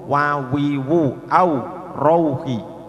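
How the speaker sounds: slow "wawiwu, au, rauhi" with clear u glides; wawu seperti u. Shown as a demonstration. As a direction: model each w sound as oo. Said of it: "wawunya seperti u". ("wawiwu, au, rauhi" dengan bunyi u jelas)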